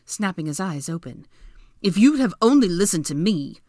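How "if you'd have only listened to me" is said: exasperated. A narrator's reading. Draco arguing.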